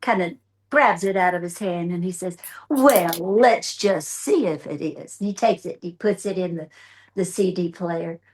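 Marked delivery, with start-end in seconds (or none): 2.7-5.2 slow, unbothered drawl; calm, deliberately slow reply; cool as a cucumber. Retold or imitated. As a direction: play it cool and slow, unimpressed. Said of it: "just as cool as a cucumber".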